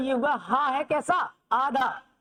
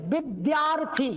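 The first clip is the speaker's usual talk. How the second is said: slow demo reading; slower than usual. Shown as a demonstration. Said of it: "इसको क्या पढ़ते हैं?".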